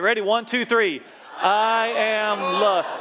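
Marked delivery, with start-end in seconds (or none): 1.4-2.9 high, loud, drawn-out shout; enthusiastic shout. Shown as a demonstration. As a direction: shout each word long with enthusiasm. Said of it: "Say it with enthusiasm".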